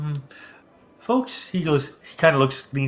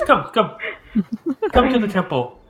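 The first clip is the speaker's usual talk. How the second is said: put-on old priest voice; 10 semitones higher, 3 dB louder than usual.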